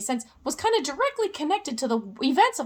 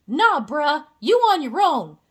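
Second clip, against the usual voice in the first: universe voice; 6 dB louder than usual. Pretend. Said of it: "The universe is like".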